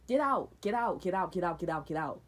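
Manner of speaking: loud chanted get out, fading down; shouted get out. Retold or imitated. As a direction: throw them out, yelling then dying off. Repeated eviction shouting.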